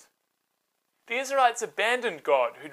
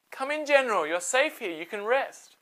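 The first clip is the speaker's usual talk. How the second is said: Jael welcoming; 5 semitones higher than usual. Acted. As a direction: lure him in gently. Jael luring Sisera.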